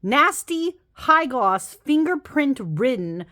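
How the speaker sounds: high-pitched indignant rant, slow and emphatic; exasperated high complaint with a laugh; mad rant. Real, not acted. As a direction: vent real outrage at the cardstock. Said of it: "I'm so mad".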